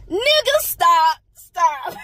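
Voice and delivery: high, slow stop; laughing outrage; drawn-out incredulous stop; exasperated disbelief. Real, not acted. Prophet corrects birthday date.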